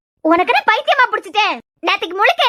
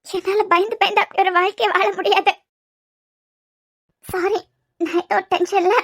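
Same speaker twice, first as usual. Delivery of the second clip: scared, fragile; 3 dB quieter than usual. Acted. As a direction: hold back tears as you admit the fear. Fearful girl confesses to lover. (அவனிடம் பயத்தை ஒப்புக்கொண்டு மெல்லிய பயந்த குரலில்)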